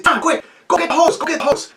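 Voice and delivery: high, urgent shout to his brother; urgent call. Retold or imitated. Boy urging his brother to grab the hose, high and urgent. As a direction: bark it out fast, like the fire is spreading. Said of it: "I said".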